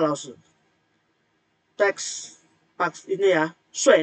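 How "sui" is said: "sui" with a falling fourth tone; nada keempat. Shown as a demonstration. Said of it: "nada empat juga ya". ("sui" nada empat, jatuh tajam)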